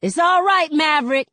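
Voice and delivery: high, loud call across the street; hollering. Acted. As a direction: holler out to cheer him. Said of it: "One person hollers out".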